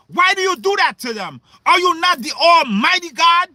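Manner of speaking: a pleading mother's plea to God; Rachel pleading with God. Acted. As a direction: cry out to God for your children, half-shouting. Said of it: "what your mother Rachel said to the Most High".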